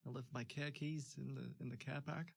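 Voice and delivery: R's dropped, car park as cah pahk; Long Island accent. Shown as a demonstration. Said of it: "doing a little bit of Long Island".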